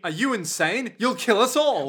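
mock alarm. Villain hearing the plan to jump, mock alarm. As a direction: protest in hammed-up panic. Acted panic at jumping off train.

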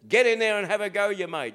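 a hint of a bloke urging his mate on; Aussie job-site bloke. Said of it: "an Aussie bloke will speak on a job site".

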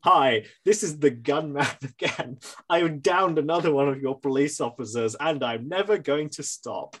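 cheery deadpan mock caller; casual call, like a routine update; bland voice. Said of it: "call back a few hours later being like".

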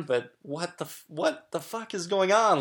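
retold rush of nerves. Man recalling his first jolt of jealousy, mildly freaked out. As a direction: blurt out a bewildered inner reaction. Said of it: "this rush of nerves".

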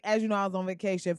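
quick, breezy brag about the vacation; mock repeated catchphrase. Podcaster teasing listeners with a rushed brag. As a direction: rattle it off like a line you'll repeat for months. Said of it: "Trust me, I'm gonna be saying".

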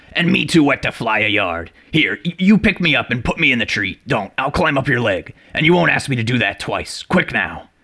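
high, agitated rustic owl; startled owl. A narrator's reading. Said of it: "evidently much startled".

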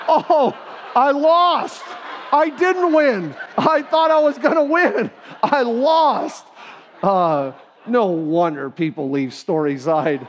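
high, loud, slow whiny wail of defeat; mock defeated wail. Father replaying his defeat to his son as a loud, high mock wail. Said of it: "You got me".

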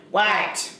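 lightly mimicked toddler "what?"; a hint of duck-like squawk; three-year-old's squawk. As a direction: imitate a small child's squawky reply. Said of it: "It's the way she says it".

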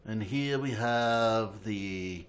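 slow Jacques Cousteau narrator; slow, hushed wildlife narration; nature documentary. Pretend. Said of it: "you gotta say it like Jacques Cousteau".

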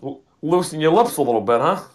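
an attempted Italian accent that drifts toward Rodney Dangerfield; a mock Italian tough-guy accent; a loose, joking Italian accent. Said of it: "my Italian accent sounds like Rodney Dangerfield".

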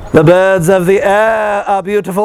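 poking fun while paraphrasing Jesus's words; mock Jesus. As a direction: lightly mimic a carefree preacher. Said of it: "or whatever, right?".

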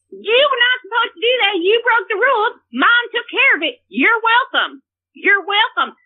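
self-righteous parental scolding, acted out; retold scolding. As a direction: lay down the law, retelling a row.

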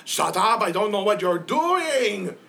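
high, loud yell; a brawler bellowing high and loud; angry shout. Acted. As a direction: snap at everyone around. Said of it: "He's just like".

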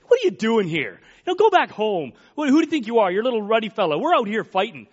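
mock scolding. Acts Eliab scolding young David.

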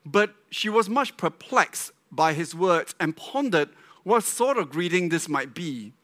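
measured scripture reading voice. Acted. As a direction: read the passage with care. Reads scripture story.

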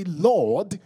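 high, loud, slow declaration; shouted praise. Shown as a demonstration. Preacher leading the church in thanks, high shouted praise. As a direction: call it out for a congregation to repeat. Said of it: "Someone shout and say".

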